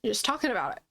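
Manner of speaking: winded with a little laugh; out of breath. Real, not acted. Vlogger gushing about favorite movies, out of breath. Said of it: "I'm out of breath".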